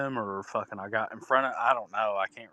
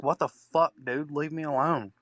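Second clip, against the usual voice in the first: high, half-shouted retold yell at the attacker; 5 semitones higher than usual. Shouting at the man who attacked him, a mild mock yell. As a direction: bark it up high like you're being attacked, but only half-hearted. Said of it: "screaming at each other".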